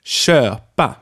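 köpa, long closed ö, slow and clear. Shown as a demonstration. Teacher saying köpa for students to repeat, careful vowel. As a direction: model köpa for the class to repeat. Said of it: "Say after me".

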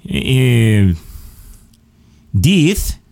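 high, drawn-out mock Aussie; badly faked Aussie twang; Australian accent. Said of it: "do the accent really well".

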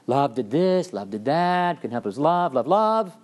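lightly hammed-up lovesick voice; mocking Francesca. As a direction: tease her endless excuses of love. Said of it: "She's very charming".

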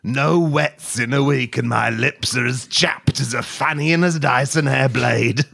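lightly voiced parched man; mock-tragic lament, slowed; dry man voice. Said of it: "I'll be the dry man".

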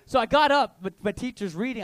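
usual speaking voice

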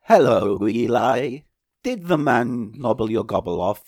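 stiff mechanical robot voice. Retold or imitated. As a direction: speak like a clunky robot. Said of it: "when I did my robot voice".

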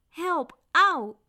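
high pained yelp for help; wailing. A narrator's reading. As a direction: wail like someone being manhandled. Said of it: "jammerde de knecht".

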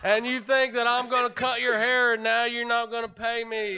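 lightly voiced Southern hairdresser scolding; a hint of put-on Southern indignation; Merle. Hairdresser scolding client who won't pay, lightly acted Southern voice. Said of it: "That's Merle".

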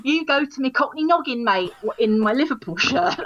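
cheeky Cockney banter. Pretend.

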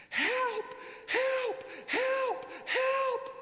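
desperate high shout for help, very loud; screaming for help. Retold or imitated. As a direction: cry out for help at the top of the voice. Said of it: "she started screaming".

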